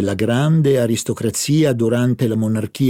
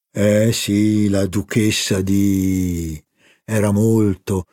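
the baron's voice; 3 semitones lower, slower than usual. Acted. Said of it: "concluse il barone".

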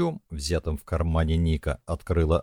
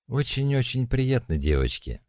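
higher, gladdened greeting; joyful; 7 semitones higher than usual. Acted. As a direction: sound delighted to meet them. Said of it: "радостно сказала Ирина". (радостно)

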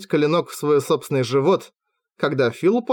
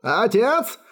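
growl; 8 semitones higher than usual. A narrator's reading. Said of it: "прорычал он".

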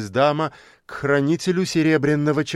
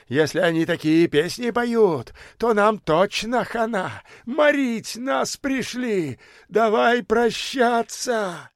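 выше и медленно, с воем; причитай, будто пришла погибель; возмущённый причитающий бомж; 9 semitones higher than usual. A narrator's reading. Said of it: "возмущённо завыл он". (бомж в шинели причитает перед собратьями, с воем)

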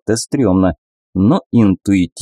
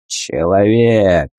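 strong voice; much slower than usual. Acted. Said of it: "громкий и сильный голос".

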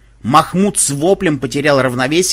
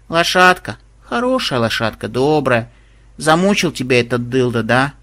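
tender cooing to an animal; coaxing tenderly. Acted. The girl soothing the tired horse, tender coaxing. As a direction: gently sweet-talk the horse. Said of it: "Реакция на ласковое обращение".

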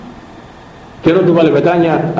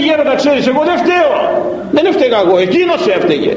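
defensive protest; 8 semitones higher than usual. Acted. Monk protests his innocence.

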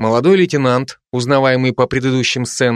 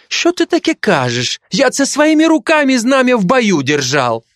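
higher indignant Ukrainian voice; Ukrainian accent; 12 semitones higher than usual. Acted. Ukrainian soldier defending himself to the Georgian, in a Ukrainian accent. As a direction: protest hotly in a Ukrainian accent. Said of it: "каждый со своим акцентом".

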